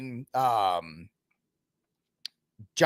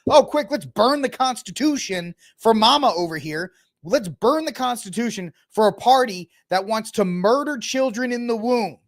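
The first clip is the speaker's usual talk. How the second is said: mock sarcastic lawmakers; 6 semitones higher than usual.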